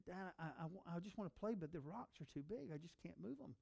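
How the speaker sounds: lightly voiced sad little boy; upset little boy. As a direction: whimper it like a defeated kid.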